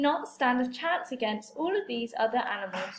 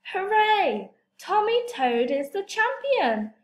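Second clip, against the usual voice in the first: victory cheer; 7 semitones higher than usual. Acted. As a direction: celebrate like a crowd gone bananas. Crowd cheers the winner.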